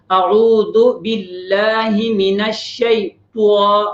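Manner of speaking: اعوذ باللہ من الشیطان said slowly with lips rounded on the ط; rounded ta mistake. Shown as a demonstration. Teacher imitating children's rounded ط in اعوذ باللہ. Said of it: "تو اس طرح ہونٹوں کو گول کر لیتے ہیں تو میں".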